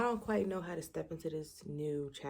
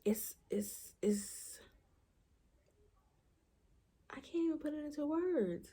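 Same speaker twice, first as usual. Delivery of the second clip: whisper; 11 semitones higher than usual. Real, not acted. Overwhelmed, searching for words.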